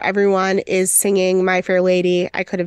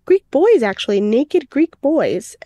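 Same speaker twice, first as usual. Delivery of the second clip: mock shock; 5 semitones higher than usual. Shocked at the bowls.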